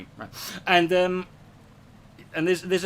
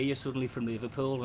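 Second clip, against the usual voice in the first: Liverpool accent; 3 semitones lower, 5 dB quieter than usual. Shown as a demonstration. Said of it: "go over to here".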